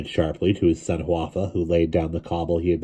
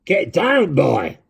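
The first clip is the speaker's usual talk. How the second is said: a hint of a hissing old man; urgent old man's warning; hissed; 10 semitones higher, 3 dB louder, much slower than usual. A narrator's reading. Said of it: "hissed old Mister Hughes".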